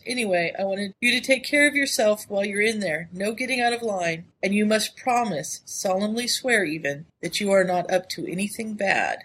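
reading a letter aloud, lightly voiced. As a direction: read it like a teasing old friend. Reads the letter in a voice.

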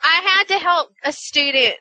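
real Southern accent coming through. Real, not acted. Teacher starting a school story, Southern accent. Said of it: "I sound so Southern right now".

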